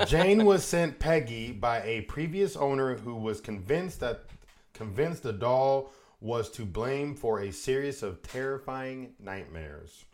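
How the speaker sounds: reading voice. Acted. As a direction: read it out with emphatic projection. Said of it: "Got to get my reading voice on".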